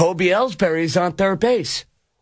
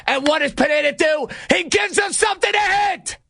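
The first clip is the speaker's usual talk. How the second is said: outraged disbelief; 7 semitones higher than usual. Real, not acted. Host lamenting Pineda's pitch to Encarnacion, outraged disbelief. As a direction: pitch shooting up into an exasperated yell. Outraged repeat of the broken rule.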